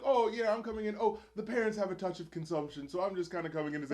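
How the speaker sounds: lightly acted breezy aunt, softening toward the end; smoothing things over. Aunt covering for absent parents, smoothing things over. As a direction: gloss over it as an awkward excuse. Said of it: "trying to smooth things over".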